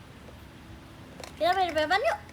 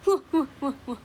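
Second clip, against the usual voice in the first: wah-wah demo; 5 dB louder, faster than usual. Shown as a demonstration. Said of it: "Coba kayak".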